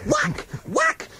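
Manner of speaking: sudden very high-pitched whack; mock whack. Radio host acting out a critic's blow, high comic yelp. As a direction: squeak out the blow.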